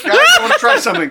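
said through a high laugh. Real, not acted. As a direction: laugh the words out. Laughing while announcing an idea.

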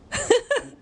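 high, real burst of laughter. Real, not acted. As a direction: break into a laugh at the memory. Laughs at phone trick memory.

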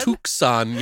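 "Tucson" as TOOK-sahn; trying out "Tucson" as took-sahn; echoed mispronunciation. Retold or imitated. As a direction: put a k in "Tucson", oo vowel first. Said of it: "That's how he said it".

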